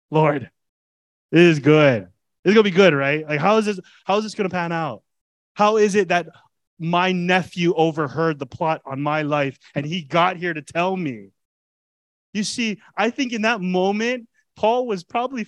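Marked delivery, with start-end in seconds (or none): 0.1-11.3 loud, eager prayer of delight; excited prayer. Retold or imitated. Preacher voicing Paul praying in his cell, loud and excited. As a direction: call out to the Lord, thrilled. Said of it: "Paul ... just praying, like".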